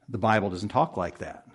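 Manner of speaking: preacher restating the rebuttal, quiet and low; quiet restatement. Real, not acted.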